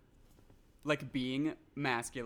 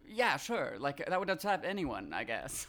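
mock half-hearted; 3 semitones higher than usual. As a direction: say it without caring. Voicing an indifferent character.

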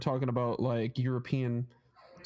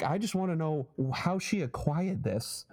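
put-on singer impression, Boston accent. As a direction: imitate a baffled Bostonian, word by word. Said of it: "he's got a really thick Boston accent".

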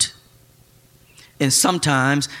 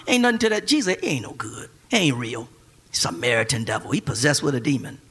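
barbershop gossip; 4 semitones lower, 3 dB quieter than usual. Retold or imitated. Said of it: "in the barbershop".

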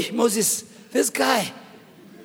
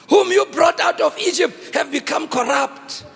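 angry God; 5 semitones higher than usual. Acted. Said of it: "he's so angry".

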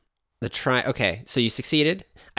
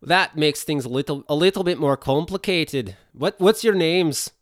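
put-on Russian accent; 5 semitones higher than usual. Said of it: "This is becoming Russian".

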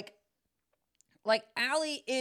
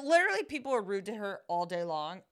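ordinary talk

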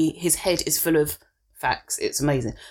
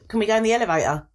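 mock American kid; faster than usual. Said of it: "it's the words as well".

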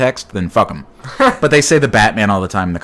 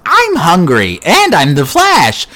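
higher, louder hammed-up hero cry; loud, higher mock Flash announcing himself; mock superhero boast; 8 semitones higher, 5 dB louder, slower than usual. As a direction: ham up a cocky superhero. Acting out the Flash grabbing lunch.

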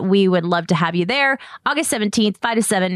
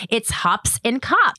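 slow careful delivery; 3 semitones higher, slower than usual. Real, not acted. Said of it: "My lips do not wanna work".

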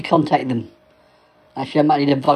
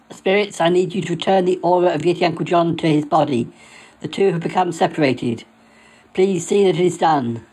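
solemn incantation. Acted. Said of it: "I'll say it again".

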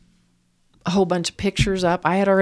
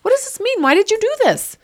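fast, much higher, rising to a loud cry; anguished pleading questions; 4 dB louder, faster than usual. Retold or imitated. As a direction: beg him for an answer, hurt. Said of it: "because I kept asking him".

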